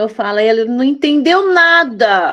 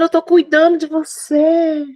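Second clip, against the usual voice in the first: tender reassurance; 2 semitones higher than usual. Acted.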